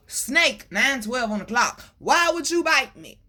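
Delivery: a hint of a wounded pleading man. The man in the story pleading with the snake, mildly hurt. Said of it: "He said".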